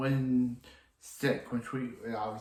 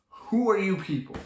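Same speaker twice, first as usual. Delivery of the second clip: baffled; 7 semitones higher, 3 dB louder than usual. Retold or imitated. Rip confronts the legends.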